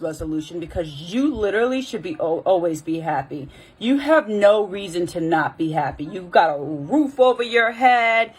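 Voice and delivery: imitated scolding mother, stretching the key words; mother with attitude. Mother dismissing her child's resolution, imitated indignant attitude. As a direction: lecture like an exasperated mother. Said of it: "literally had an attitude".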